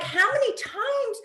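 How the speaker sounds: high, slow, incredulous how many times; laughing at herself, stretching out how many times; exasperated laughing. Real, not acted. Caught laughing mid-story, asking herself in high disbelief. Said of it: "Oh my God".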